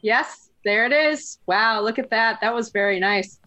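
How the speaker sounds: dry mock-helpful sarcasm; deadpan sarcastic. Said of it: "Ilyana, that's sarcasm".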